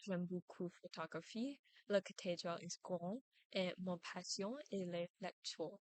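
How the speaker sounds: French sentences landing on last words photographie, grande, lectures; French sentence-final stress. Shown as a demonstration. Presenter shows French stress with photographie, grande, lectures, sentence-final stress. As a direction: hold the weight back for photographie, grande and lectures at each sentence end. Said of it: "the stress is on the last word of a sentence".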